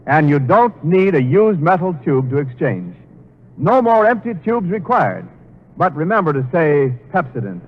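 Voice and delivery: smooth announcer selling toothpaste; bright commercial pitch; ad read. Acted. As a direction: sell it like a radio announcer.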